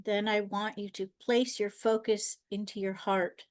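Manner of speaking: lightly softened, measured meditation guiding voice; calm guided-meditation delivery with long silences. Acted. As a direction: talk listeners gently into stillness, leaving long pauses.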